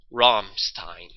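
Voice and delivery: a band name said in a German accent; deliberate German accent on the band name. Shown as a demonstration. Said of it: "I could say it in a German accent".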